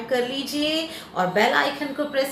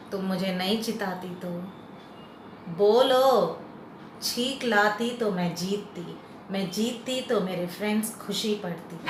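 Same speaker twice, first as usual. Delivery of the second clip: coaxing the grass; 5 semitones lower, 6 dB quieter than usual. Pretend. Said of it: "सुन लीजिए कि मैं इसको क्या बोल रही हूँ".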